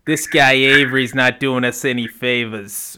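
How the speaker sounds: put-on slow, light Midwestern Wisconsin accent. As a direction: drawl it like a Wisconsin local. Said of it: "like, in his Wisconsin accent".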